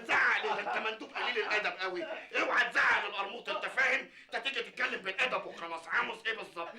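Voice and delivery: high, pushy telling-off; scolding. Acted. Scolding the courier like a boss. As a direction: put the courier in his place.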